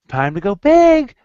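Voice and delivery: loud, slow host announcement; game show reveal. Pretend. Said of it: "and say".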